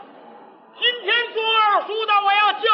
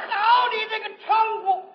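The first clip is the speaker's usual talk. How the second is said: mock outraged shout. Mock outrage, rehearsed accusation.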